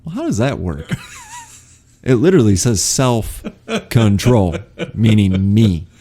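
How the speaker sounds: real laughing incredulity; amused disbelief. Real, not acted. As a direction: laugh through the baffled objection.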